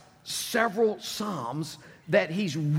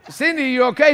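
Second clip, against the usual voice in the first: worried question; 8 semitones higher, 10 dB louder than usual. Retold or imitated. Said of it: "I said".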